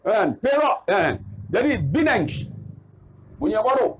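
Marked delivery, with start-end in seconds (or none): 1.8-2.3 "Bineng" opening on B instead of P; Arab pronunciation. Shown as a demonstration. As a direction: say "Bineng" for Penang. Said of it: "Dia fa dia tak boleh sebut".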